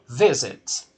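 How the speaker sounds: "visit" with its first syllable stressed. Shown as a demonstration. Teacher shows students the stressed syllable, "visit" stressed on VIS. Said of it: "A sílaba tônica aqui é a primeira".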